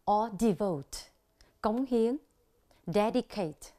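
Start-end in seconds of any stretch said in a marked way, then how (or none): 2.9-3.7 dedicate stressed on DED, falling away; DED-i-cate, weight on the start of dedicate; first-syllable stress. Shown as a demonstration. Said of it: "nhấn ở âm tiết thứ nhất".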